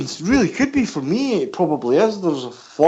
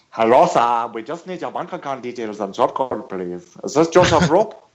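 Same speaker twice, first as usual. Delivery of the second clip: put-on African accent; 4 semitones lower than usual. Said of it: "you should hear my African accent".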